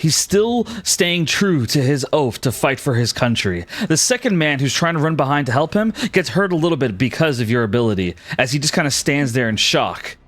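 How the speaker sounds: vivid battle scene-setting, driving on; dramatic game master narration. Acted. Game master describing an arrow kill to the archer, dramatic narration.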